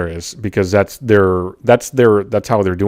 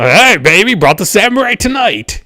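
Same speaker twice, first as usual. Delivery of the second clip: higher, louder cheesy come-on; hamming up a flirty boast; mock seductive pickup line; 10 semitones higher, 4 dB louder than usual. Joking to a friend about helmets, a cheesy flirt.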